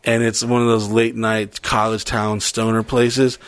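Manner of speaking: normal talking voice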